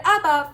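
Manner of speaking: Abba with the first syllable stressed, AB-ba. Shown as a demonstration. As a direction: lean on the AB in Abba. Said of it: "the second to last syllable".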